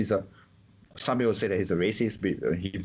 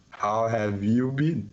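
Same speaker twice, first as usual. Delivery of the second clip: imitating a patronising newcomer, drawn out; mock condescending; much slower than usual. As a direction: slowly stretch it out in mock condescension. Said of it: "it sounds very condescending in a sense".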